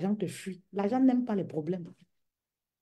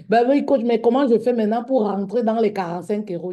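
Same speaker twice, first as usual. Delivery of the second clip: plays the whining client begging the coach; imitating a client; 3 semitones higher, 6 dB louder than usual. Client voiced again.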